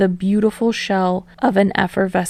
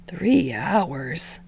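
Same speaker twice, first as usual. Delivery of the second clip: hissing; 5 dB quieter than usual. Acted. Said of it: "Shinso hisses".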